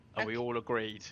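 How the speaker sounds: normal talking voice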